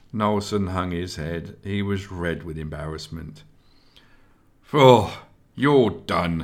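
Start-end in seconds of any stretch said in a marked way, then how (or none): 4.7-6.4 loud, growling voice. Esgar growls at Nelson after his clumsiness with the weapon; growled. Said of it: "Esgar growled at Nelson".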